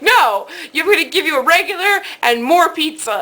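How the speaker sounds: put-on Italian accent. Italian counterman overrules her order, insistent imitated Italian accent. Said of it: "in this very thick Italian accent".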